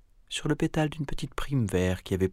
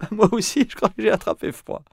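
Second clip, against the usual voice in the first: Mila enrhumée; 13 semitones higher, 7 dB louder than usual. Acted.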